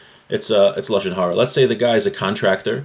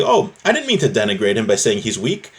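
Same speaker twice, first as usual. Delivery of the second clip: higher-pitched mock self-justifying plea; protesting excuse; 5 semitones higher than usual. Speaker excusing his negative remark about someone, mock protest. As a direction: plead innocence in a raised voice, lightly acted. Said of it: "You can't just say".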